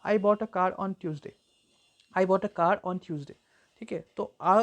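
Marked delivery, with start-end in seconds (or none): 0.1-1.3 slow, "bought", "car", "Tuesday" stressed, "a" light; sentence rhythm demo. Shown as a demonstration. Teacher showing how to speak a sentence, unstressed "a". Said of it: "कैसे करके आप एक sentence को बोलते". 2.2-3.3 "a" light, "bought" and "car" carrying the stress; slow rhythm, keep "a" weak; unstressed article. Shown as a demonstration. Teacher repeating the example for learners, unstressed "a". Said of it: "अ को उतना हम लोग stress नहीं दिए".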